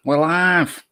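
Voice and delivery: put-on northern English accent, loud. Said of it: "this is me northern voice".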